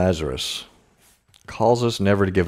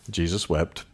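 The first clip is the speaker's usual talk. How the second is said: hushed verse; 2 semitones lower, 7 dB quieter than usual. Real, not acted. Pastor hushes as he quotes the verse to the congregation. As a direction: drop to a soft, reverent hush. Quoting the shortest verse softly.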